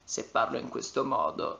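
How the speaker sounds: Italian in a low, soft creak; vocal fry. Shown as a demonstration. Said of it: "talking all the time like this".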